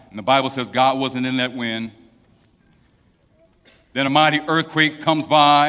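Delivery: ordinary talk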